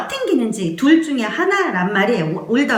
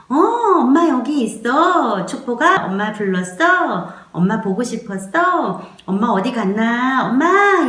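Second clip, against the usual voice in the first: calm mother talk; 2 semitones higher than usual. Shown as a demonstration. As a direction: speak gently to the crying baby, then call out. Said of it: "그냥 이렇게 말을 하는 거예요". (아기에게 다정하게 말하는 엄마)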